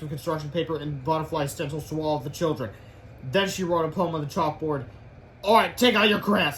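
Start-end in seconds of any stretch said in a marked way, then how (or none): 5.4-6.6 louder, a bit stern; harsh. Acted. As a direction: bark orders at the class. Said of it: "said Miss Ripple harshly".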